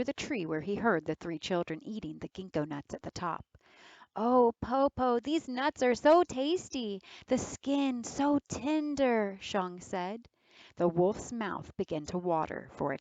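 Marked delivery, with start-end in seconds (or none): 4.2-9.4 teasing. Acted. Girl teasing wolf with tasty nuts.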